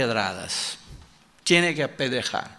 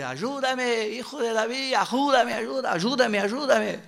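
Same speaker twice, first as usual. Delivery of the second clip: begging woman; 7 semitones higher than usual. Retold or imitated. The foreign woman begging Jesus for help, high and pleading. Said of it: "a gritar".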